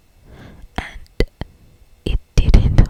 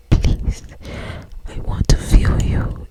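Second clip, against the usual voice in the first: rasped. Acted. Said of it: "he rasped".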